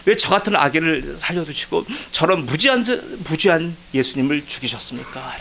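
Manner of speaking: mildly indignant challenge to God. Retold or imitated. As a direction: reenact demanding an answer from God. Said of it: "목청 높여 떠들었어요". (하나님께 대드는 항변 재연)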